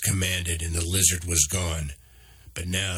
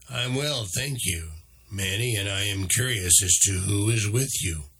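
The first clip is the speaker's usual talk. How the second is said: put-on intelligent voice, slight Australian accent; 2 semitones higher than usual. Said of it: "Answering in an intelligent voice with a slight Australian accent".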